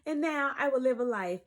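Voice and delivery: a light polished vlogger voice; YouTube voice. Pretend. Vlogger mocking her old channel persona, lightly polished voice. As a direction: put on your announcer polish for the camera. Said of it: "That was my YouTube voice".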